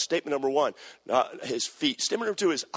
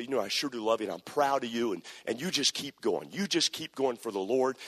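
tender encouragement; 4 semitones lower than usual. Retold or imitated. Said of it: "I would say".

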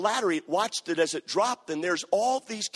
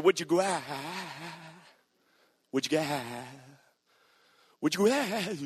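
stammered ask. Retold or imitated. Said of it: "Sound like a dog that was panting".

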